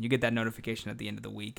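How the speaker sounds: rushed, fast patter; talking fast. Real, not acted. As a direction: hurry through the line. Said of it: "I'm sorry I'm talking so, so fast".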